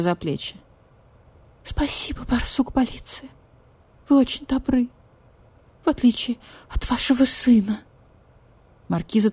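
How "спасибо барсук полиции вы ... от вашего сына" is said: very high half-whispered whine; whining cat. Acted. Marquise cat whispers, begging badger-cat for pity. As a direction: whimper for pity like a kitten.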